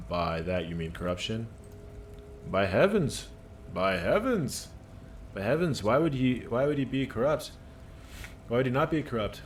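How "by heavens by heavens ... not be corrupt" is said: theatrical "By heavens!"; hammed-up shock; a lightly voiced worker feigning outrage; mock-indignant worker. Worker character exclaims.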